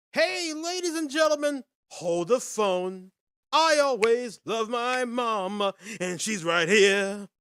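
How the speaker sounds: loud showman's shout-out; big announcement. Real, not acted. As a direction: announce it big, stretching the words out. Hails audience, announcing his mom.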